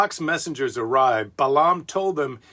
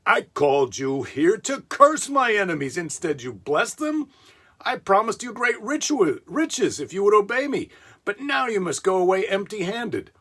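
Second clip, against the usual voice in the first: angry Balak; 7 semitones higher than usual. Acted. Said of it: "This made Balak very angry".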